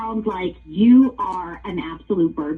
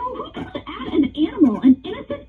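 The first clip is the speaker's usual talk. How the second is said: higher, outraged scolding; 6 semitones higher than usual. Real, not acted. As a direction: let the disbelief boil over. Outraged owner of punched parrot.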